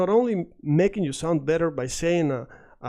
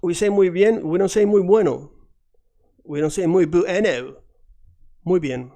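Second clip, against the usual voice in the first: louder, firm insistence on muy bien; emphatic correction; 2 semitones higher, 7 dB louder than usual. Real, not acted. Teacher loudly insisting on the right phrase. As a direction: stress it like a rule. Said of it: "as I said".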